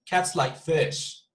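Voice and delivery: slow, fish stressed at the end; Betonung auf FISH. Shown as a demonstration. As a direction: land the emphasis on fish. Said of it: "on each one of these words".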